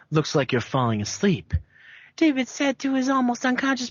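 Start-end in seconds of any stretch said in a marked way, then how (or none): 0.1-1.5 lightly voiced villain. Villain David speaks.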